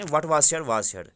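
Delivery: slow, emphatic classroom reading; slow reading aloud. Shown as a demonstration. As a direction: read it slowly for the students. Teacher reads English text aloud. (آہستہ آہستہ پڑھنا)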